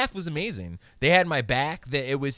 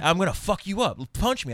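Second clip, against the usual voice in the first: mock taunt; 6 semitones higher, 3 dB louder than usual. Aggressor repeating threat.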